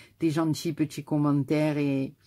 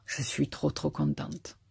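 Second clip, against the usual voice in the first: soft breathy whisper, much quieter; moved whisper; 7 dB quieter than usual. Real, not acted. Unwrapping tiny gifts from her friend, softly whispered delight. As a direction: let it slip out under your breath. Moved, opening another gift.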